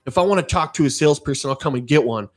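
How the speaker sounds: imitating a rude man jabbing a finger; rude customer. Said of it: "and he goes".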